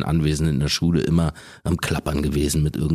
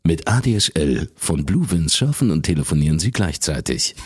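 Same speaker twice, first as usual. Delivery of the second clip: ad read. Shown as a demonstration. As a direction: read it like a radio ad. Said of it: "So ein Zeug halt". (tiefe Werbestimme)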